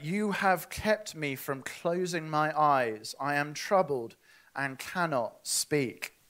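slow, deliberate psalm reading; solemn scripture read. Acted. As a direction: read the verse slowly, weighing each line. Reads psalm verse aloud.

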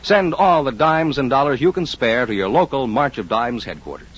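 usual speaking voice

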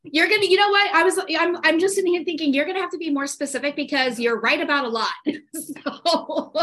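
laughing jab at her friend; playful teasing. Real, not acted. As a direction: rib her about always being right. Teasing friend's claim of rightness.

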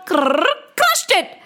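stretched slowly; drawn-out final crush; slow heavy crush. A narrator's reading. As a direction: let it land heavily.

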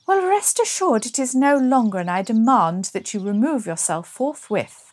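mildly hammed-up indignation, starting high and loud; imperious period-drama retort; haughty demand. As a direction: order the intruder off with lofty outrage. Acted quarrel over the lake.

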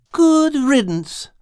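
slow, high grumbled aside; grumbling cat. A narrator's reading. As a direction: mumble it under your breath as the cat. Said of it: "mumbled Al under his breath".

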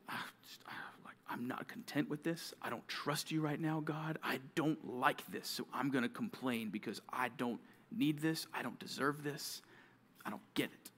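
soft grumble opening on breathy sighs; grumbling. Acted. Believer grumbling to God in hard times, softly discontent. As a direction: complain quietly, half under your breath. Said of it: "you're grumbling because of the difficulty".

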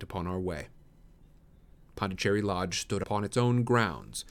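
measured audiobook narrator; story narration. A narrator's reading. Narrator telling of the arrival at the lodge, measured storytelling. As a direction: read it as a Victorian tale.

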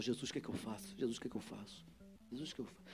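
whisper-soft, fading prayer to Jesus; inward pleading prayer. Retold or imitated. Pastor at a loss beside the man, hushed prayer.

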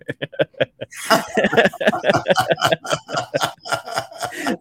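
long high burst of laughter; cracking up, high and sustained; laughing. Real, not acted. Co-host cracked up by the most Italian podcast comment, laughing.

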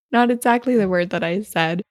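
ordinary talk, nothing marked

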